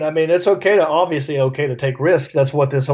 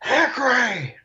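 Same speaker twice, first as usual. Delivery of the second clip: crowd call-out; 7 semitones higher, slower than usual. Retold or imitated. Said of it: "And now the crowd goes".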